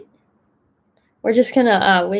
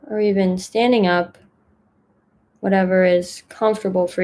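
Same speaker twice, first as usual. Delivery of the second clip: gentle guiding voice with long pauses between phrases; unhurried, even meditation instructions, leaving room to settle; guided meditation. Acted. Mindfulness fellow settling the group into a breathing meditation, calm guidance.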